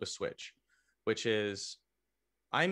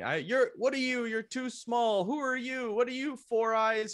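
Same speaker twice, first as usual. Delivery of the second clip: much higher, jeering drill sergeant voice; mock drill sergeant insults; 10 semitones higher than usual. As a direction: bark the insults like a drill sergeant mocking a recruit. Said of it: "I heard all of these insults".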